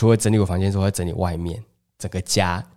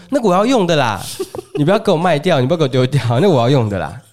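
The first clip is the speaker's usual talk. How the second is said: imitating mom's higher, louder whiny protest; insistent mom; 4 semitones higher, 3 dB louder, faster than usual. Daughter imitating her mom refusing to let the plates be sold, higher and louder insistent whine. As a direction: play the clingy mother refusing to part with plates.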